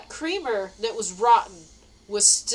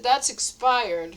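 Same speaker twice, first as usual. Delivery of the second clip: slow warning; 3 dB louder, much slower than usual. Retold or imitated. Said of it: "I said".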